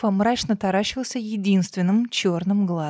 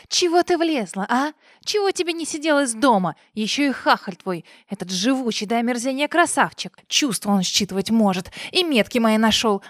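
enraged boss roar; 3 semitones higher than usual. Acted. Villain scolding.

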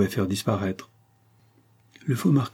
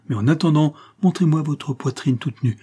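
raised, insistent demand; sudden energy; 6 semitones higher, 3 dB louder than usual. A narrator's reading. Old servant ordering the marquis to bare his chest, energetic. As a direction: demand it forcefully, pitched high. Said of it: "avec une énergie subite".

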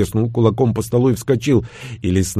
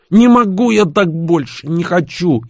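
desperate outburst; 7 semitones higher than usual. Acted.

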